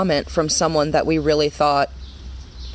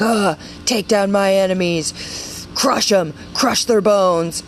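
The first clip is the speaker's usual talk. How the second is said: David's vengeful plea; slower than usual. Acted. Acting David's angry Psalm prayer.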